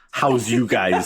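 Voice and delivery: lightly put-on Chicago "How's you guys?"; a laughing hint of Chicago accent; mock Chicago hello. Host offering guest a Chicago-style greeting. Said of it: "a more Chicago hello".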